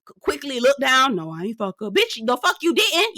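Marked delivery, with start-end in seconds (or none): 1.2-1.9 mumbled denial. Retold or imitated. Josh looking down, denying. 1.9-3.2 higher and slow, full of attitude; sassy disbelief. Retold or imitated. Host mocking Josh's denial, slow and sassy.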